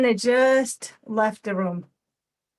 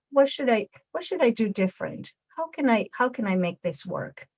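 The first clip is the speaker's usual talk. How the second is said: assertive, apologetic. Shown as a demonstration. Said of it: "Raccoon is gonna be assertive".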